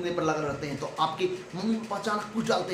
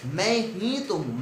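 मैं said slowly with weight; slow, lean hard on मैं; stress on मैं; slower than usual. Shown as a demonstration. The teacher shows students where the stress falls, on मैं. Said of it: "यानी मैं पर stress डाला".

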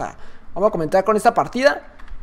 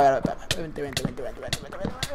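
very soft, low, rapid repeated muttering; hushed urging; 8 semitones lower, 12 dB quieter than usual. Real, not acted. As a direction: coax under your breath, sinking away. Urging in the game, under breath. (murmullo bajito y repetido)

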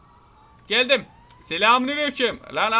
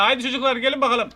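calling out loud; 3 semitones higher, 5 dB louder than usual. Real, not acted. Calling the Jasons.

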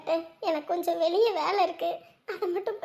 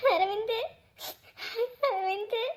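tearful calling; 4 dB quieter than usual. Acted. Weeping mother calls unconscious son.

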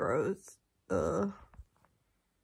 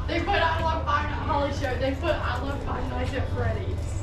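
surprised; 5 semitones higher, 6 dB louder than usual. Real, not acted. Surprised at what the cake says.

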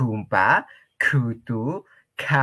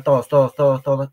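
calling out; 3 semitones higher, 7 dB louder, faster than usual. Real, not acted. Llamado a compartir.

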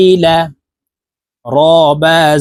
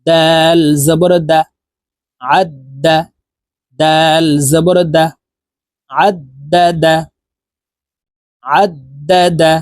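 spelling drill. Shown as a demonstration. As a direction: spell it out clearly for students to repeat. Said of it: "আমি বানান করে বলে দিচ্ছি". (ধীরে ধীরে বানান করে বলা)

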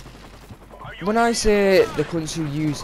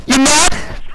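high, loud sneering mic taunt; mocking taunt; 14 semitones higher, 9 dB louder than usual. Mocking another player's taunt, high and loud. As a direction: mimic the smug guy on the mic. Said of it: "starts going on the mic saying".

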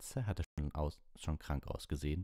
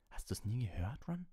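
higher, gentle teacher voice; Lupin; 8 semitones higher than usual. Acted. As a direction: ask it like a patient teacher.

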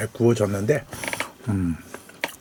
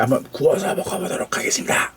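whisper; 4 dB quieter than usual. Real, not acted. Whispered aside while cooking.

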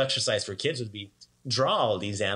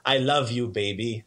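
put-on Croatian accent. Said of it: "in their thick Croatian accents".

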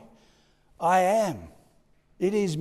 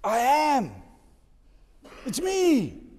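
high, loud divine declaration; God answering Moses, loud and high; proclaiming voice of God; 8 semitones higher, 4 dB louder, slower than usual. Acted. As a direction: announce it with power. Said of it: "or God says".

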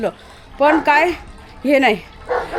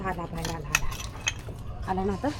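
hushed whisper, don't scare it; low, soft whisper as the dog creeps out; 7 semitones lower, 13 dB quieter, slower than usual. Real, not acted. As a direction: breathe the words, barely voiced.

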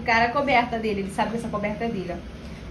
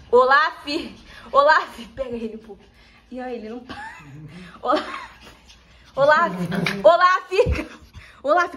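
sharp call. Real, not acted. Owner calling her excited dog to stop. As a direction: snap the dog's name to stop him.

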